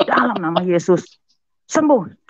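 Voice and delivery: high, forceful retold prayer; loud healing command. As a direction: push it up to a sharp "sembuh". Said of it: "waktu bilang nama Yesus itu kencang". (perintah doa yang kencang)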